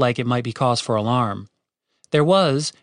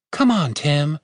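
pleading; 2 semitones higher, slower than usual. Acted. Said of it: "Catherine pleaded".

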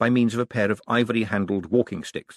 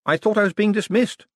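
louder, higher mock surprise; playing along; 12 semitones higher, 5 dB louder than usual. A narrator's reading. Moist playing along with the old lady, mock surprised. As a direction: play along with her. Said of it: "said Moist, playing along".

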